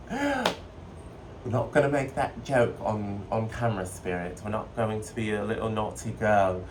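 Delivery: playful mock-British accent; cheeky, inexact British accent; bastardized UK accent. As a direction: put on a loose UK accent. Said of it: "some kinds of bastardized U K accent".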